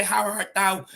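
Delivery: put-on lightly theatrical old English; a hint of stage Shakespeare; Shakespearean. Shown as a demonstration. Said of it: "just a bit of Shakespeare there".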